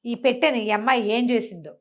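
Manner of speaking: ordinary delivery, nothing marked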